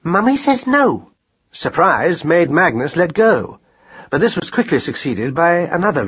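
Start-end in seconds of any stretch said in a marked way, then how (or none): 0.0-1.1 very high, drawn-out maternal refusal; sharp scolding. A narrator's reading. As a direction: lay down the law to a toddler. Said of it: "cried Madeline sharply".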